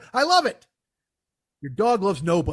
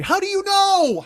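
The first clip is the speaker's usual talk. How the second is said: louder, higher, slow disbelief; incredulous retort; 10 semitones higher, 5 dB louder, slower than usual. Real, not acted. Retorting to the video narrator, loud incredulous demand. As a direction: demand it, stretching each word. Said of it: "repeated retort".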